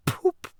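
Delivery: stifled popping puff; suppressed noise. A narrator's reading. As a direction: let a muffled pop escape. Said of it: "making strange suppressed noises inside him".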